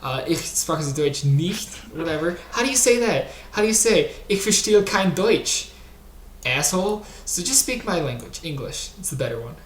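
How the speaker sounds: high-pitched, exasperated scolding; irritated rant. Acted. Host demanding guest speak English, irritated. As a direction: berate them with pitch pushed up, easing at the end.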